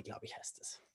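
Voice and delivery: barely audible murmur to self; whispered aside. Real, not acted. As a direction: drop to a whisper. Unsure aside after URL.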